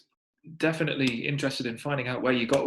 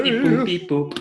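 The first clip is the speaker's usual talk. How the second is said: high beeping robot voice; 9 semitones higher, 6 dB louder than usual. Pretend. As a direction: beep boop like a toy robot. Robot noises to say bye.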